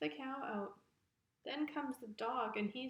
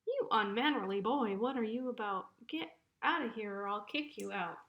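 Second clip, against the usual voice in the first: put-on loud, indignant ram telling off a boy; acted outburst of offended bluster; indignant scolding; 6 dB louder than usual. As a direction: scold loudly, then ease slightly on the threat. Ram scolds boy trying to evict it.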